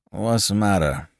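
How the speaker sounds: mildly puzzled, unhurried calm question; calm, dazed inquiry. A narrator's reading. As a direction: ask it calmly, as if nothing happened. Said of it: "he inquired calmly".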